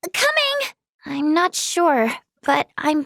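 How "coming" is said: high, singsong call. Acted. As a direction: answer a summons from afar. Calling out to someone.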